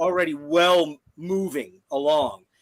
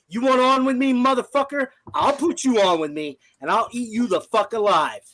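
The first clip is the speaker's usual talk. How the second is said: raised, aggressive taunt; angry threat; 5 semitones higher than usual. Real, not acted. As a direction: threaten him, voice pushed high. Threatening the troll on stream.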